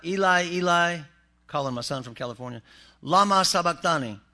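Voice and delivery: dramatic cry. Acted. Preacher reading Jesus's cry.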